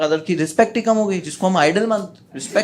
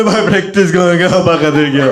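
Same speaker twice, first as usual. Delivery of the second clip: loud wailing in a changed voice; crying boy; 3 semitones higher, 7 dB louder than usual. Retold or imitated. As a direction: blubber it through tears. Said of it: "वो रोते रोते बोल रहा है".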